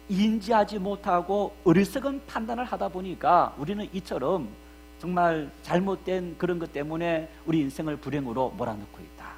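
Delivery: ordinary delivery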